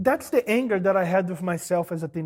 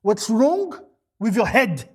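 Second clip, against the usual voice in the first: louder, pressing rebuke; 4 dB louder, slower than usual. Pretend. Preacher to the congregation, a louder rebuke. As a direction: demand it of them. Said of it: "the absolute minimum you wanna ask".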